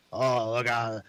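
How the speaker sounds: lightly voiced dirty pervert, droning. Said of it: "I think that was Dirty T".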